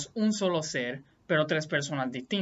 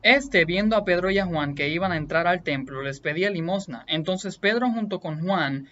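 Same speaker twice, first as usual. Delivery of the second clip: emphatic, louder Bible reading aloud; scripture reading; 3 dB louder than usual. A narrator's reading. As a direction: read the passage out with firm emphasis. Reads Bible passage aloud.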